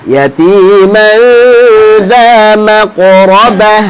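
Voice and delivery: slow recitation with long held vowels; Quran recitation. Shown as a demonstration. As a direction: recite slowly, sustaining each nasal hum. Recites Quran for class to repeat.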